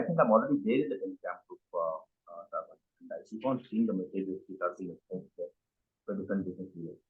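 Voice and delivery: muffled voice, hand over mouth. Real, not acted. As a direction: speak through a muffled mouth. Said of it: "Sorry, your voice is muffled suddenly".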